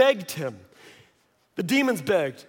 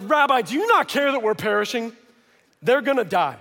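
higher, mildly panicked plea; alarmed disciples; 4 semitones higher, 4 dB louder than usual. Acted. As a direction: plead with mock alarm. Panicked disciples rouse sleeping Jesus.

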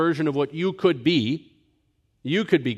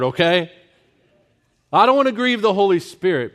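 louder, higher, pushing back hard; loud retort; 5 semitones higher, 7 dB louder than usual. Retold or imitated. Preacher loudly rebuking a relative's wrong idea, raised voice. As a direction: stop him short, raising your voice. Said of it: "I'm like".

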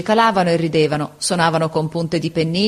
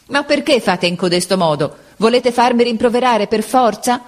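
a rising, strained plea from a harried substitute; pleading teacher; 6 semitones higher than usual. A narrator's reading. Supplente sopraffatto implora la classe, supplica crescente. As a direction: beg the class, voice climbing higher.

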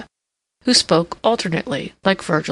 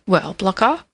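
triumphant; 4 semitones higher than usual. A narrator's reading. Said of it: "inquired the king triumphantly".

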